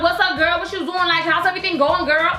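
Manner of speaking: put-on high-pitched, sassy girlfriend greeting; lightly put-on chatty alter ego. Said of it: "this is my alter ego".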